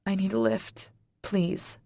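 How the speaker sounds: small broken plea. Acted.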